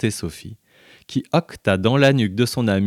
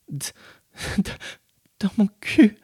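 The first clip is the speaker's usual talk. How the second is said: stammering; 12 semitones higher than usual. A narrator's reading. Stammered answer, breathless.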